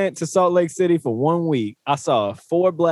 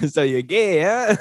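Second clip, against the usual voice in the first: put-on a light North Dakota accent on "gay"; slower than usual. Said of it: "the North Dakota accent".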